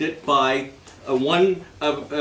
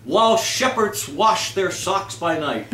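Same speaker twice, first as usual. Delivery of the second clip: garbled title; 3 semitones higher than usual. Retold or imitated. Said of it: "My personal favorite".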